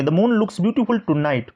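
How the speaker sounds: slow, careful dictation; slow example reading. Shown as a demonstration. Teacher reading the moon sentence slowly. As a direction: say each word slowly. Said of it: "इस प्रकार से".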